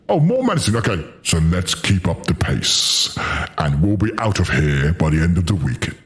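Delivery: a hint of a British soul singer through a voice changer. Streamer reads a game note through a voice changer, lightly smooth crooner voice. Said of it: "It's like a British Barry White".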